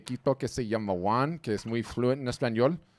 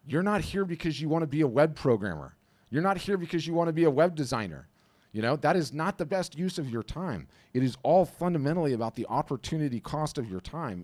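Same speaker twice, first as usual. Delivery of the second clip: emphatic; 5 semitones higher than usual. Real, not acted. Coach pushing artists' priorities.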